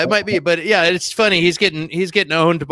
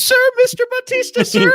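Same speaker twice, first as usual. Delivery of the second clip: fawning executive; 4 dB louder than usual. Pretend. Executive fawning over star.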